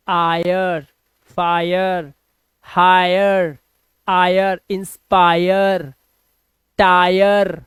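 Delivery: each of आयर, फायर, हायर stretched on "aa-yer"; drawn-out ire sound. Shown as a demonstration. Teacher drilling the rule word by word, "aa-yer" drawn out. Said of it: "इसका उच्चारण हो जाएगा आय".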